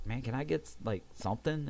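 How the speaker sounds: mild, hesitant ask with a rising end; tentative request. Retold or imitated. Patient asks staff for pain relief, tentative.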